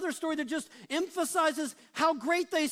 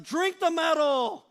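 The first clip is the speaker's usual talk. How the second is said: louder, slow and heavy order; mock furious command; 3 semitones higher, 5 dB louder than usual. Moses ordering the people to drink the gold, in mock fury. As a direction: lay down the punishment hard.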